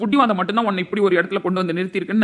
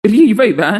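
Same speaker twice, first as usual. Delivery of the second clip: louder mocking sneer; loud scornful jeer; 10 dB louder, slower than usual. Husband jeering at his wife, scornful. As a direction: scoff at her loudly.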